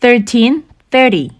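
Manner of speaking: very slow and deliberate, each number set apart; slow read-along. Shown as a demonstration. Teacher reading the prices along with learners, very slow. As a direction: read the numbers slowly so learners can follow. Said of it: "같이 읽어볼게요".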